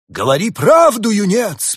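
loud, high stern command. A narrator's reading. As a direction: order him to tell the truth. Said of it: "приказал дух зимы".

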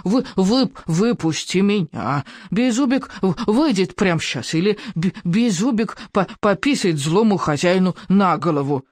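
muffled stammering rasp inside a helmet; grating dragon voice. A narrator's reading. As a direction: grate it out, stammering and cross. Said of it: "проскрежетал Беззубик".

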